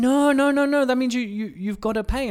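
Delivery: high and loud insistence, mock alarm; imitating a dad correcting his son loudly; father insisting. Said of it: "And he's like".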